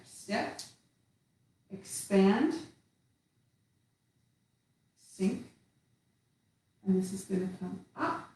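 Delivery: calm instructor voice guiding the form. Acted. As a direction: talk them gently through each step. Cueing tai chi moves while doing them.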